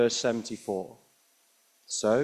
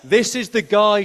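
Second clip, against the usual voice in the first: public accusation; 7 semitones higher, 5 dB louder than usual. Retold or imitated. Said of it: "she says".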